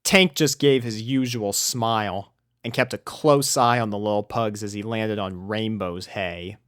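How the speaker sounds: ordinary delivery, nothing marked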